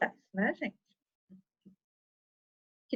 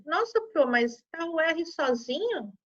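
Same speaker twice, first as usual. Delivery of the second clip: aluno em dúvida; 3 semitones higher than usual. Acted. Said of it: "que a gente fala assim".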